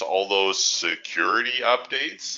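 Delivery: drawn-out mock-official emphasis, rising at the end; funny air-quote voice. Shown as a demonstration. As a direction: say it slowly in audible air quotes. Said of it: "in my funny voice".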